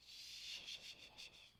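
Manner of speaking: soft unvoiced shushing, fading away. Shown as a demonstration. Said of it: "I think we need to just say".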